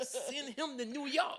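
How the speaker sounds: high, loud, drawn-out crowd cry; excited calling out. Retold or imitated. Laughing audience calling out about the performer, excited mock shout. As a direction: call it out slowly over the laughter.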